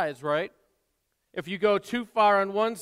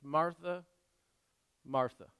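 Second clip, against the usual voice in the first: gentle; 4 dB quieter than usual. Acted. Jesus gently repeats her name.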